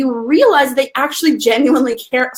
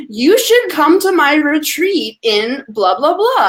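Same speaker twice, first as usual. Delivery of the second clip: mock spam pitch; 3 semitones higher, slower than usual. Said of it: "The first message is".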